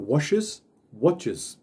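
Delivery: washes and watches both ending in iz, the E like I and the S like Z; iz ending drill. Shown as a demonstration. Teacher to students modelling washes and watches with iz. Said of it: "ele fica com um som de uma espécie de Z".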